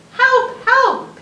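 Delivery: high, loud cry for help; shouting for help. Acted. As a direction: call out desperately. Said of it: "he said".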